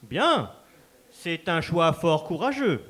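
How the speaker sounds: grand, formal announcer delivering the joust rules; ceremonial announcer. Acted. Master of ceremonies announcing the final joust to the crowd, formal and grand. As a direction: proclaim it to the whole hall like a herald.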